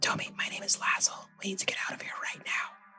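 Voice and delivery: soft whispering. A character in the scene speaking to tommy, whispering. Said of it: "so I'm gonna whisper".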